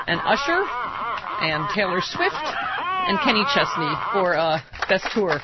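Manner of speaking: giggling through the list, slowed down; speaking through laughter; laughing while talking. Real, not acted. Laughing at own nominations.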